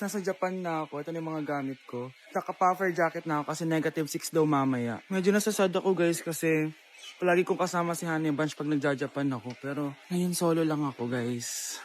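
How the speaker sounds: low, subdued vlog narration; mildly sad. Acted. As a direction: let a little loneliness show. Says sad, travelling alone, for prank. (medyo malungkot na boses)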